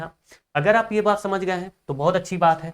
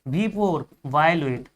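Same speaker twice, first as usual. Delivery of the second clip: very slow, word by word for note-taking; slow dictation; much slower than usual. Shown as a demonstration. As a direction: dictate slowly so students can write. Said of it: "अब इसका full form जानिए". (धीरे-धीरे लिखवाते हुए)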